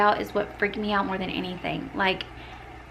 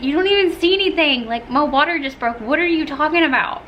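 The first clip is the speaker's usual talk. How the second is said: exasperated disbelief; 6 semitones higher, 4 dB louder than usual. Retold or imitated. Exasperated reply to fainting husband.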